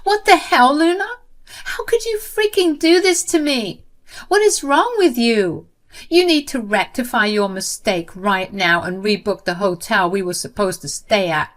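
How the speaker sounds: high, loud furious yell; enraged sister-in-law screaming down the phone; angry screaming. Acted. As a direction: scream it in outrage. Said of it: "practically screamed at me in anger".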